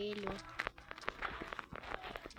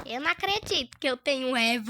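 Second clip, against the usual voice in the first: excited; 2 semitones higher, 7 dB louder, faster than usual. Real, not acted. Excited about getting a revolver.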